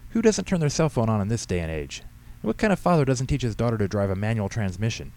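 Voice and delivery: a hint of bossy old woman laying blame; scolding old lady. Voices Henrietta scolding the pastor.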